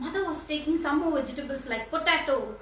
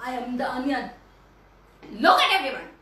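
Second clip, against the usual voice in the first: angry onion; 4 dB louder, much faster than usual. Acted. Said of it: "really angry".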